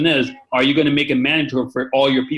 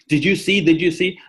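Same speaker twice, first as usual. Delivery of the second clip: higher-pitched excited retelling; excited caller; 6 semitones higher than usual. Retold or imitated. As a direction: imitate a caller eager to share news. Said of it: "he was so excited".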